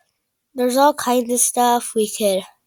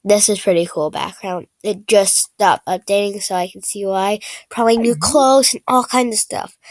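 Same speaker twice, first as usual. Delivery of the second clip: talking while chewing gum; words around a wad of gum; 2 semitones lower than usual. Real, not acted. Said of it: "I'm chewing gum right now".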